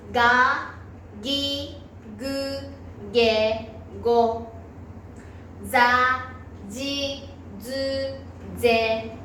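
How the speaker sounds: voiced rows from が to ぼ, then ぱ to ぽ, syllable by syllable; pronunciation review. Shown as a demonstration. Teacher reviewing pronunciation for learners, isolated syllables from が to ぽ. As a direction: model each syllable from が to ぽ separately, pausing after each. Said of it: "発音、 もう一度復習いきます".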